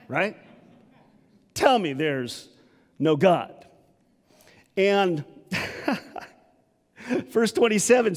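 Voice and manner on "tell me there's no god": emphatic. Shown as a demonstration.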